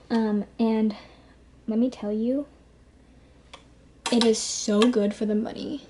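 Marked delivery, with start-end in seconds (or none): 4.1-5.9 slightly breathless, talking fast; short of air from nonstop talking; out of breath. Real, not acted. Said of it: "I'm, like, out of breath".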